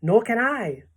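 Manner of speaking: high, loud plaintive cry; wail. A narrator's reading. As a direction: wail along helplessly. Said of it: "wailed the glowworm".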